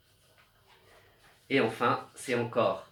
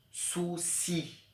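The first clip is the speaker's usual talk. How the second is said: whispered souci; 6 semitones higher, 7 dB quieter than usual. Shown as a demonstration. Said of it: "On entend".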